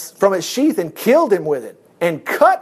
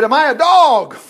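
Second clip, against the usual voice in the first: higher, louder giant's bellow; roar; 5 semitones higher, 5 dB louder than usual. Acted. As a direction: roar it down at the boy. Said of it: "he roared at David".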